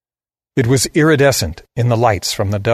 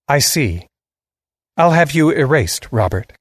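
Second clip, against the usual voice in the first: flat, no inflection; 5 semitones higher than usual. A narrator's reading. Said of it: "with no change in her inflection".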